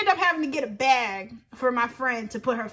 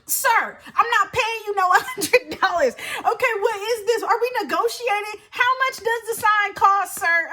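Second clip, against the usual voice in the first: indignant haggling; 6 semitones higher than usual. Retold or imitated. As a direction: refuse the price, fed up. Quoted self haggling, indignant.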